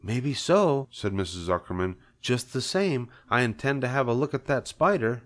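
skeptical wife. Acted. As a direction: answer with gentle doubt. Wife voiced in story.

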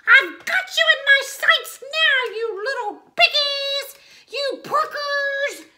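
high, loud cackling witch voice; shrill witch gloating from the sky. A narrator's reading. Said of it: "she cackled as she circled overhead".

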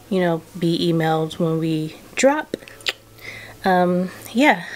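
breathless, winded talk; words pushed out short of air; out of breath. Real, not acted. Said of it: "and I'm out of breath".

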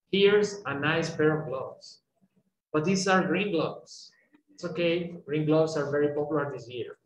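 slow clerk lines; slow dialogue read. Shown as a demonstration. Teacher reading the clerk part slowly. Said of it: "dialogue demo".

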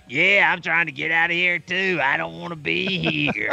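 old lady at the counter in a mock Southern accent. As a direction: imitate an old Southern smoker. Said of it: "I give everybody a Southern accent".

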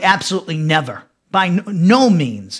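"absolutely never" and "no means" said low and deliberate; emphatic. Retold or imitated. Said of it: "He's emphatic".

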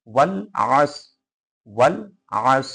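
ওয়াল আস in two parts, আস squeezed in the throat; squeezed-throat ayn. Shown as a demonstration. Teacher drilling ayn for students, ওয়াল, pause, throat-pressed আস. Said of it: "গলা চেপে উচ্চারণ করতে হবে".

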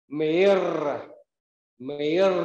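Mir ending on a trilled tongue r; rolled final r. Shown as a demonstration. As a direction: roll the r at the end of Mir. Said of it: "Khi kết thúc âm thanh chúng ta rung lưỡi".

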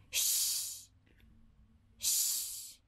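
hushed shh to quiet a friend; shushing. Acted. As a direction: shh them down softly. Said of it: "Eles falam aqui".

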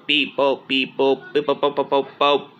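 low, steady mechanical beep boops; robot beeps. Acted. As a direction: chant the beeps like a machine. Robot beeping.

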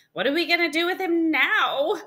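high, loud, fretful question; exasperated mom. Acted. Mom stuck with a dinosaur at the doctor's, exasperated. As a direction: ask it as a mother at a loss.

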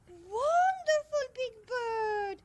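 slow, swooping "wonderful"; gushing delight. Acted. Meryl thanks Big Bird for offering to tell, gushing.

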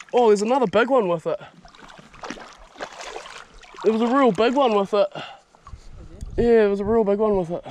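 thrilled at seeing a bigger one nearby; excited. Real, not acted. Spots a bigger fish.

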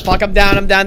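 loud frustrated callout; man down shout. Real, not acted. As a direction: shout that you're down. Player just killed.

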